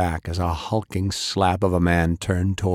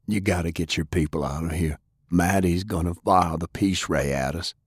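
wounded heavy. Acted. Sullivan urges escape.

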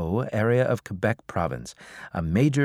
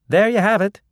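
through gritted teeth; 10 semitones higher, 6 dB louder than usual. A narrator's reading. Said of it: "the reporter said through gritted teeth".

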